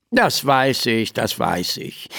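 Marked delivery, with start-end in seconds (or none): 1.1-2.1 softer, lower, muttered to himself; quieter repeat. A narrator's reading. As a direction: drop it as an aside. (leiser, vor sich hin gemurmelt)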